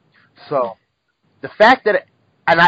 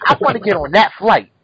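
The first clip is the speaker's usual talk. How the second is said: insistent pleading; 4 semitones higher, 4 dB louder than usual. Retold or imitated. Pleading with agent.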